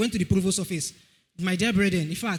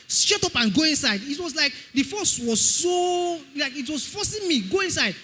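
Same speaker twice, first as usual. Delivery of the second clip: forceful spirit command; 4 semitones higher, slower than usual. Retold or imitated. Spirit forcing him inside.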